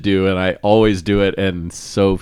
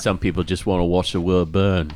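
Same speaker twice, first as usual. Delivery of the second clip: put-on Michael Caine accent; 3 semitones lower, 5 dB quieter than usual. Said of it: "do the Michael Caine accent".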